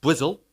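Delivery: "Brizzle", Bristol with a buzzing z and swallowed ending; local pronunciation. Shown as a demonstration. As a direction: say "Brizzle" the West Country way. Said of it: "as we like to call it".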